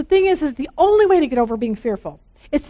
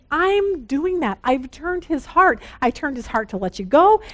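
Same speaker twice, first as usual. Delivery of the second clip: God speaking. Retold or imitated. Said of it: "and God's saying".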